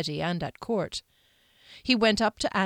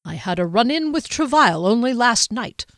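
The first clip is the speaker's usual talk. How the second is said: irritably; 4 semitones higher, 4 dB louder than usual. Acted. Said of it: "Jeskellen replied irritably".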